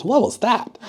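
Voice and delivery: startled question. Acted. Crocodile feels something on head.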